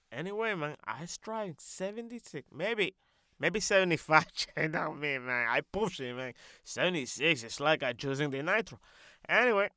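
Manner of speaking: put-on accented voice with swagger; boastful comic character. Character boasting how fast he drove, brash and animated. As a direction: brag away as an accented loudmouth.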